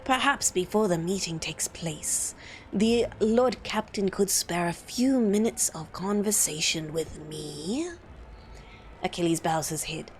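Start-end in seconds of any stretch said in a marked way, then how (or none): 0.0-7.9 low, measured courtier making a request; sinister bureaucrat. Acted.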